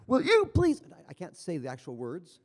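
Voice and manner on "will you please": high, loud exasperated demand; very emphatic. Retold or imitated. Machine's last prompt to unresponsive patient, very emphatic. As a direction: imitate the machine at the end of its patience. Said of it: "it's very emphatic".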